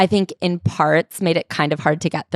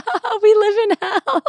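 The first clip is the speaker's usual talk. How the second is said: much higher, laughing through the words. Retold or imitated. Retelling her reaction to the book, laughing high. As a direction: squeal it out while cry-laughing.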